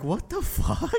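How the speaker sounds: put-on New Zealand accent. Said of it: "they're always just like".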